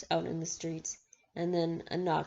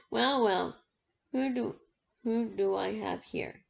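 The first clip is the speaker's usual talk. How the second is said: higher, mocking villain voice; menacing soft voice; 3 semitones higher than usual. A narrator's reading. Basta taunting Maggie at the door, mock-sweet and menacing. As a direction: toy with her like a cruel villain. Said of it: "he asked in menacing, soft voice".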